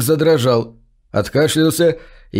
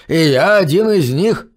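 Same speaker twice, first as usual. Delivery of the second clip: put-on higher, rasping old man; hoarse; 4 semitones higher than usual. A narrator's reading. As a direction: croak it out, a bit higher. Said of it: "прохрипел Ангер".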